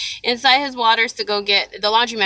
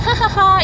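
high, spelt-out "ha ha ha"; light mock laugh, pitched up; imitated friendly laugh; 9 semitones higher than usual. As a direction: mimic a lady's happy laugh. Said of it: "touched me on the shoulder so lovingly".

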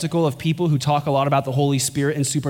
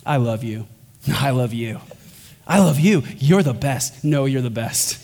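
playful Trinity banter; 3 semitones lower than usual. Pretend. Preacher voicing the Trinity talking to each other, playful. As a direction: tease each other with love like old friends. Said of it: "it'd be like this".

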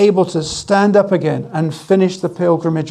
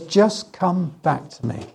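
gentle invitation; 6 dB quieter, slower than usual. Acted. Voicing God's gentle invitation.

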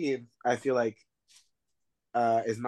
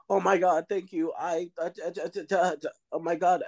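mock panic; 6 semitones higher than usual. Voices panicked Randy.

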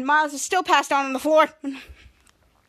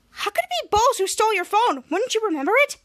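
higher-pitched puzzled questioning; acted bewilderment; 6 semitones higher than usual. Mika puzzled by the theft, acted bewilderment. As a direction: ask it in mock disbelief.

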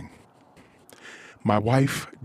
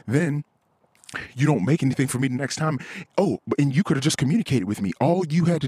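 higher, fast, mocking imitation of his wife; wife's justifications, hammed up higher and fast; 3 semitones higher than usual. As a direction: rattle off her excuses in a mock higher voice. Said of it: "She's like".

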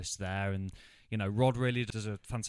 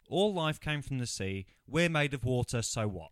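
mock profound delivery; 3 semitones higher, 4 dB louder than usual. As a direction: recite it like a cheesy movie hero. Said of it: "I'm just gonna repeat that again".

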